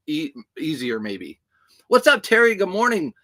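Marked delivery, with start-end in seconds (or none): 1.9-3.1 a quick, raised hello to a regular viewer; bright greeting. Real, not acted. Vlogger greets a chat viewer by name, upbeat and loud. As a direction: sing out the viewer's name in welcome.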